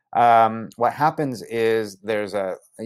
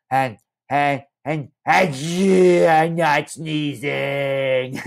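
mock protest; 4 semitones higher, much slower than usual. Narrator protesting.

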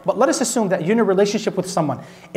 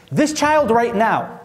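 slow emphasis; 3 semitones higher, much slower than usual. Shown as a demonstration. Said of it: "repeated for emphasis".

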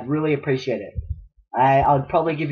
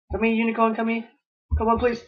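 coaxing; 8 semitones higher than usual. Acted. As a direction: lure it gently. Coaxing the unicorn.

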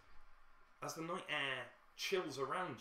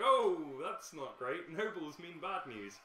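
wary grumble; 5 semitones higher, 7 dB louder, slower than usual. Retold or imitated. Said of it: "they're like".

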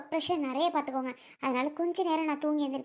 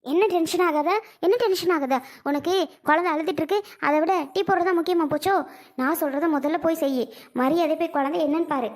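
indignant retort, slightly raised; angry scolding. Acted. Selvi rejects being told to stay calm, scolding angrily. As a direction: throw the words back, then order crossly. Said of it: "ஏன் செல்வி சத்தம் போடுற?".

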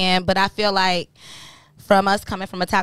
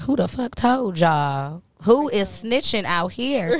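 slow mock outrage; slower than usual. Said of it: "I be like".

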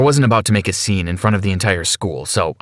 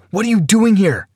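yelling; 10 semitones higher than usual. Acted. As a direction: yell at the intruder.

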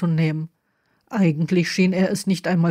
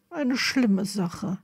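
slow, softer, sorrowful; 5 dB quieter, much slower than usual. Acted. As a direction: let the grief weigh it down slowly. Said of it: "verzog kummervoll das Gesicht".

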